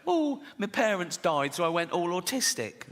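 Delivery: mock Fringe confessional. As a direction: parody a precious festival performer. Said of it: "Edinburgh Fringe type way".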